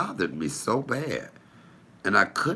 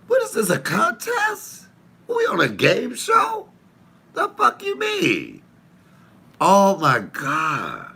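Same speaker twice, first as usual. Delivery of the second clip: very high, laughing mock disbelief; squealing laughter; 11 semitones higher than usual. Real, not acted. Mocking partner while laughing.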